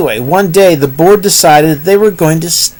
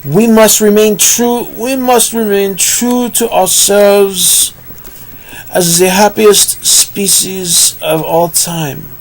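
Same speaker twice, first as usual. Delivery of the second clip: lightly raised, slow solemn speech; mild hint of an orator; rousing speech; 3 semitones higher than usual. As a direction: inspire the crowd of pigs. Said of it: "gasped in awe".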